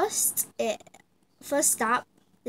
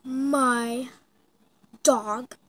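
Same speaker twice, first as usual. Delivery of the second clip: gasping surprise; 6 dB louder, much slower than usual. Acted. Fan spots Logan Paul.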